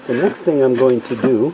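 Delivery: muffled behind a welding helmet; inside a welding helmet. Real, not acted. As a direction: talk from inside a welding mask. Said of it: "talking with my helmet on".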